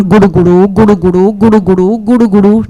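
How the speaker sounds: rolling rumbly tummy noise; steady repeated gurgle sounds; tummy rumbling. Acted. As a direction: imitate a rumbling stomach. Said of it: "his tummy is rumbling".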